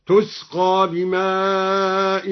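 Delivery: "تسقى" begun with a clear t, drawn-out recitation; recited with feminine taa. Shown as a demonstration. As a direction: recite "تسقى" with an initial taa, slow and held. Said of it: "قرأ الدوري بتاء التأنيث". (تلاوة "تسقى" بتاء التأنيث في أوله)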